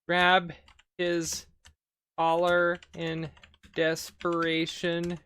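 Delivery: slow, word-by-word dictation with gaps; halting, spaced-out typing voice; dictating while typing. Real, not acted. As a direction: read out each word as you type it. Types commands aloud.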